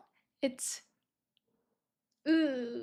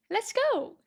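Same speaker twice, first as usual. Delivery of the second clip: excited; 9 semitones higher than usual. Real, not acted. Teacher hyping up learners.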